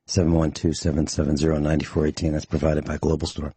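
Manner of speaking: slightly winded, talking between breaths; short of breath from rushing in. Real, not acted. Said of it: "I'm out of breath, I am".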